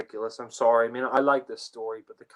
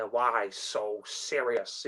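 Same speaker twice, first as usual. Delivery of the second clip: mock villain quote; 3 dB quieter, much slower than usual.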